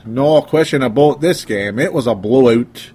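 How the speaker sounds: mock Canadian play-by-play call, drawn out; Canadian commentator. Host imitating an old hockey game commentator, Canadian announcer voice. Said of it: "I had to do my Canadian voice".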